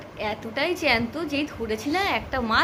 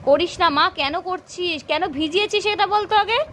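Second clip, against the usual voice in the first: higher, louder scolding; 5 semitones higher, 4 dB louder than usual. Real, not acted. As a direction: tell off a naughty little one. Scolding a toddler who soaked things.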